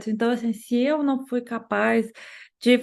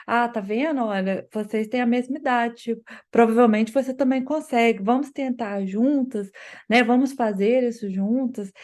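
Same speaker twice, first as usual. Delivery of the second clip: encouraging parent. Retold or imitated. Parent gently encouraging child to try together. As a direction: lightly cheer the child on. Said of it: "Tem uma outra entonação".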